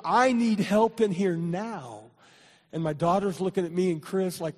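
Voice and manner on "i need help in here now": mild retold yell. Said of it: "then she yelled".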